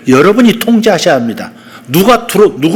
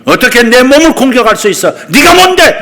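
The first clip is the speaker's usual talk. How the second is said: rising from firm to a loud high shout; firm rebuke building; 5 semitones higher, 3 dB louder than usual. Shown as a demonstration. Preacher rebuking the attacker of his children, building to a loud shout. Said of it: "단호하게 일어서서".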